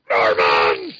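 big booming reveal shout; dramatic reveal. Retold or imitated. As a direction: announce the name like a twist. Comic twist reveal, last page.

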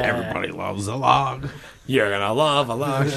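commercial announcer. Pretend. Ad voice parody.

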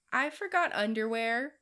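sheepish Carl. Retold or imitated. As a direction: blurt it out like an embarrassed kid. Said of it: "Carl would be like".

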